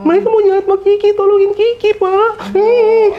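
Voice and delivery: ghost Mumun pleading. Retold or imitated. Ghost begs the boss to save the maid, high pleading voice. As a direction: plead like a frightened little ghost. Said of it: "Si Mumun ini ngomong".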